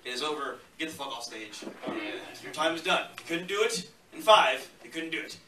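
mock stage heckle. Mock-dismissing himself after singing.

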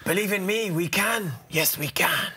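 lightly voiced wartime leader rallying; rousing slogan like an old statesman; Churchill-like speech. A Boris impression that comes out a bit Churchill. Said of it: "It's a bit Churchill".

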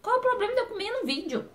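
high-pitched, quick mock outrage at the critics; indignant protest. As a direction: whine back at the commenters, half joking. Defending herself against commenters.

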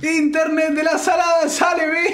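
high laughing excitement; excited, laughing. Real, not acted. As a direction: laugh through the words as the card appears. Reacting to pack reveal. (emoción riendo)

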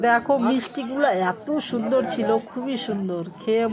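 eating sweets while speaking; chewing while talking. Real, not acted. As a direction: mouth partly full. Seen 0: cheeks puffed, fingers put into mouth at 3.4, chewing.

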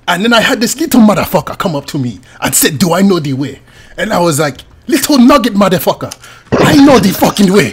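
put-on African accent, animated storytelling; hammed-up African accent rising to indignation. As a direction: tell it in a mock African accent. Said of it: "I show you my common tongue".

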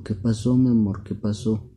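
high, loud worried question; acted parental alarm with an endearment; concerned father. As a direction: ask it as a storybook papa. Father voiced asking crying daughter.

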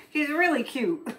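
giggling through the words; laughing. Real, not acted. Charmed by the lobster picture, laughing.

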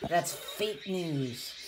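low and soft, laughing through the words; amused, laughing under the breath; laughing aside. Real, not acted. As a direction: chuckle while joking. Adult laughs about fake news.

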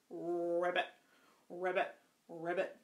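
croaky frog sound; frog ribbit. Shown as a demonstration. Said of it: "Let's do their sounds".

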